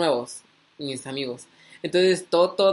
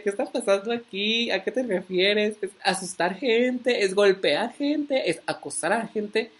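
higher-pitched, panicky string of questions; mock panic; 3 semitones higher than usual. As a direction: act out bewildered panic, lightly hammed-up. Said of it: "todo paniqueado".

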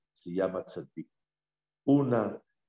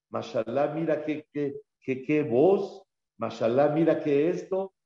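higher, gushing mock admiration; imitating someone marveling, raised pitch; admiring exclamations; 4 semitones higher than usual. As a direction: gush over everything you see. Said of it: "Mashallah es".

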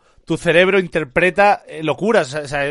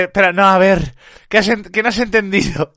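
mock indignant Dallas; 3 semitones higher, 5 dB louder than usual. Streamer mimicking Dallas correcting Revenant, mock exasperated. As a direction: play at taking it far too seriously. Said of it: "Se pone así".

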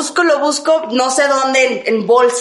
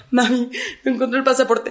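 crying to mom; 4 dB quieter than usual. Retold or imitated. Calling mom, crying over lost passport.

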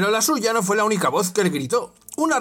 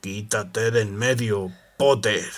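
low, slow growl; 7 semitones lower, slower than usual. Acted. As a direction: growl the order. Snape orders Harry.

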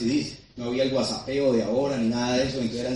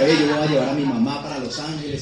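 mildly tearful, louder, pleading; a touch of retold tears, voice pushed up; retold crying plea; 5 dB louder than usual. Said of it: "yo lloraba y le decía". (promesa entre lágrimas, contada sin llanto real)

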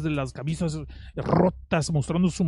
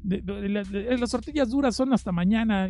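mocking bar crowd; 6 semitones higher than usual. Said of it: "Y todos".

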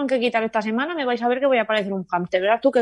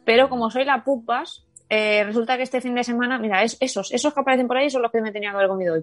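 barely opening the mouth; after wisdom teeth. Real, not acted. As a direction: talk with a sore jaw. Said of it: "no puedo abrir la ma-, más la boca". (después de sacarse las muelas del juicio)

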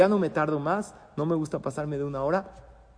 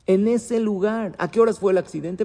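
anxious pressing; 5 semitones higher, 7 dB louder than usual. Acted. A father pressing the students for details, loud and anxious. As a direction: drag the first words out in dread, then press.

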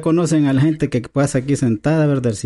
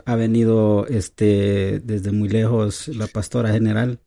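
mock preacher. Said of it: "culto de avivamiento".

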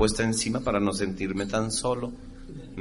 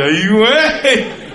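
stunned gasp; 9 semitones higher, 10 dB louder, much slower than usual. Retold or imitated. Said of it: "Y dije".

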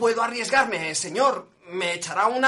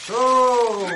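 shouted whoa; 3 semitones higher than usual. Acted. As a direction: shout the horse to a stop. Coachman halting the horse.

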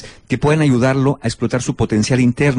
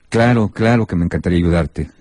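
reluctant; 5 semitones lower than usual. Shown as a demonstration. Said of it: "El tono de voz va a determinar la intención".

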